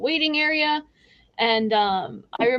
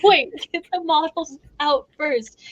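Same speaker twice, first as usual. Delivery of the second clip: urgent call; 3 semitones higher than usual. Retold or imitated. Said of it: "I caught him by his shirt collar".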